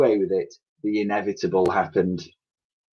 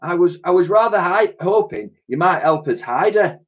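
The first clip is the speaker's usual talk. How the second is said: cleaning lady voice; 8 semitones higher than usual. Acted.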